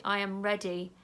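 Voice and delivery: calm self-talk while tapping; gentle affirmation. Shown as a demonstration. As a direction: say it tenderly to yourself. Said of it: "I'm gonna tap there and say".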